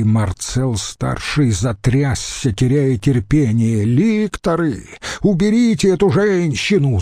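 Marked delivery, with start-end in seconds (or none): 3.8-7.0 angry shout. A narrator's reading. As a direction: lose patience and call out high. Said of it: "закричал он". (раздражённый крик)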